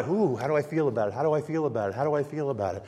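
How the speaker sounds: soft, fast, whiny self-questioning; lightly mocking a self-centred person; mock self-absorbed. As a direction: mimic a navel-gazer quietly. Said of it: "it's all interpreted by".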